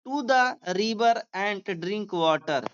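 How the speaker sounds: very slow, word by word dictation; slow classroom reading aloud. Shown as a demonstration. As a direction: read it out slowly for students to follow. Teacher dictating story sentence slowly.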